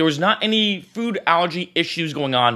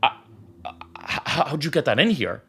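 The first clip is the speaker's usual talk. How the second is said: panicked stammer; 3 semitones lower, 5 dB quieter than usual. Retold or imitated. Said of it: "he starts freaking out".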